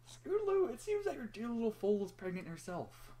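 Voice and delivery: high, put-on voice for the nurse; nurse character voice. Nurse telling Scootaloo her foal is pregnant, high put-on voice. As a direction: voice the nurse breaking shocking news. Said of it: "Said Nurse Redheart".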